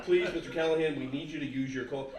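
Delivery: whisper-ish plea from a tired agent; mock pleading caller. Annoyed company calling, pleading.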